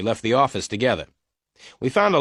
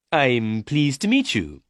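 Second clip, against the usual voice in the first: polite; 4 semitones higher, slower than usual. A narrator's reading. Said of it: "Mister Meyer said politely".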